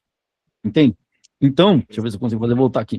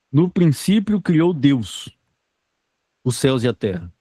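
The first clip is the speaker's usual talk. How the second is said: scripture reading; slower than usual. Acted. Reading Genesis verse aloud.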